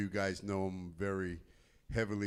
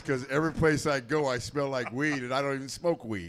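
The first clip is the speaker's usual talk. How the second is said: higher-pitched indignant complaint; mock exasperation; 4 semitones higher, 5 dB louder than usual. Rock to his car mate, exasperated complaint. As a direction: protest the injustice of it, voice raised.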